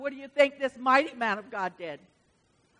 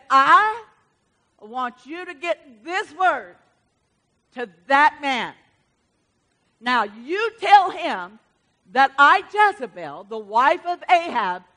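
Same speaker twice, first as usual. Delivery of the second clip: mean Jezebel. Acted. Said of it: "This mean woman called Jezebel".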